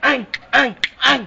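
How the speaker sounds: squeaky high-pitched game cry; high squeal. Pretend. Playful call-and-response game.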